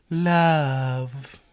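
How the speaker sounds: drawn-out, low alien voice. Acted. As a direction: say it like a cartoon alien. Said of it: "Did you mean to sound like the alien".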